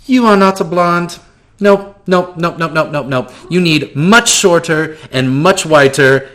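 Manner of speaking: high, gushing theatrical voice; flamboyant shopkeeper. Acted. GM greeting the player as eccentric shopkeeper, high and gushing. NPC triumphant about disguise.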